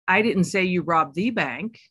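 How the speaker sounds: the said as thee, stressed. Shown as a demonstration. Coach showing shifting meaning, stress on the. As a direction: hit the word the. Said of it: "emphasize a different word each time".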